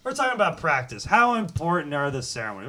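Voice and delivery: exasperated press-conference rant; Allen Iverson rant. Retold or imitated. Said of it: "quote ... Allen Iverson".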